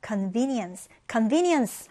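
convenience said slowly and clearly; slow model word. Shown as a demonstration. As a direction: spell it out slowly for students. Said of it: "명사형도 알아둘게요". (천천히 또박또박)

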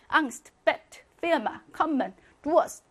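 앙스트, 베트, 피르마 each cut short; quick separate words from 앙스트 to 루어스; quick short vowels. Shown as a demonstration. Teacher showing short vowels, quick 앙스트, 베트, 피르마. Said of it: "이렇게 빨리 발음하셔야".

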